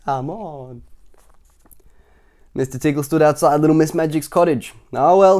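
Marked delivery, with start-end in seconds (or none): 0.0-0.8 grumbling. Acted. Tickle grumbling to himself. 4.9-5.4 musing. Acted. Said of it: "he thought".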